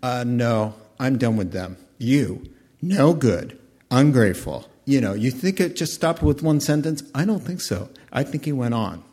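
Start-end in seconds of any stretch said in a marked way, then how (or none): 0.0-4.7 a touch of scornful anger, louder at the end; mildly angry Moses. Acted. Moses refusing the people, with growing contempt. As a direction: spit out the insult with mounting disgust. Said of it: "And he said".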